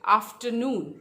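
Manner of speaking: आफ्टरनून as after-NOON; आफ्टरनून with stress on the last syllable; third-syllable stress. Shown as a demonstration. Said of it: "third syllable पे stress है".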